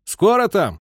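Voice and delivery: loud, high call into the dark; captain calling to the crews in the dark, shouting; shouting into darkness. A narrator's reading. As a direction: call out to the crew far off. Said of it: "крикнул в темноту".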